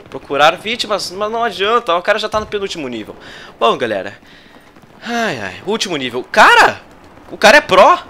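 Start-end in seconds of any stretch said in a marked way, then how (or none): 6.3-8.0 high, loud amazed outcry; stunned shout. Real, not acted. Streamer shouting in amazement at a pro opponent. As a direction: shout in disbelief at the rival.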